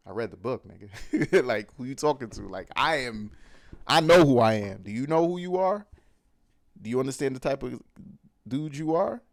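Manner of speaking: cocky, rising challenge; heated mock challenge. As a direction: puff up and dare him to answer. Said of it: "it gets a little heated".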